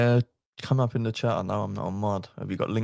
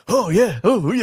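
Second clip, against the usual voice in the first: mock moaning Kev; 8 semitones higher, 3 dB louder than usual. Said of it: "He's like".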